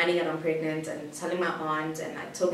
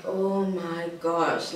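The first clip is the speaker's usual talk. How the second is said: very slow, drawn-out exasperation; retold long-suffering disbelief, dragged out; exasperated; much slower than usual. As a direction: stretch each word, fed up. Exasperated at sulking boyfriend.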